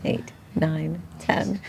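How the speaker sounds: counting mid push-up; doing push ups. Real, not acted. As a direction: count reps while pushing. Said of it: "Brendan's doing one-legged push-ups right now".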